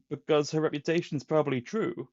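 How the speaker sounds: badly acted Lando impression; terrible Lando voice. Quoting Lando to his friend, badly put-on voice. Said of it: "That's a terrible voice".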